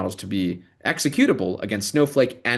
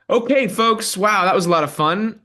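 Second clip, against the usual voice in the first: bright, much higher and louder burst of enthusiasm; excited host; 10 semitones higher, 5 dB louder than usual. Real, not acted. Host hyping up the audience before welcoming the guest, excited and loud. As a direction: pump the room up after the demo. Host switching to the next segment.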